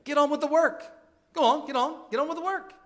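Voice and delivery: imitating a commanding preacher, no Welsh accent; Lloyd-Jones voice. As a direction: drive them back to work like a fiery old doctor. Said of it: "I can't do his Welsh accent, but you can just hear him".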